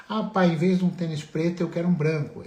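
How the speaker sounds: filho pedindo. Acted. (filho pedindo, voz um pouco mais aguda)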